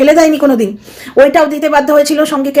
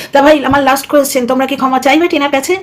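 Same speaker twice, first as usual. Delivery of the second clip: normal talking voice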